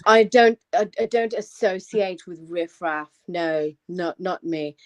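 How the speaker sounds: low, slow, put-on posh dismissal; mock posh accent. Host jokes about not mixing with riffraff, mock posh. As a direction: play the haughty well-spoken snob, posh accent. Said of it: "I'm taking the, the piss".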